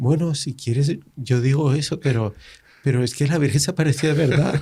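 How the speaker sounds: put-on tiny, high-pitched small child's little girl voice. Retelling what a seven-year-old girl said: imitating a little girl's small voice. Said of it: "con la vocecita de ella".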